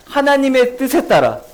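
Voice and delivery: ordinary talk, nothing marked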